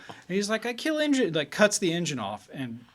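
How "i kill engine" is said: high, loud broken-English Russian pilot; bad Russian accent. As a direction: play the pilot announcing he cuts the engine. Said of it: "I'm doing my terrible accent".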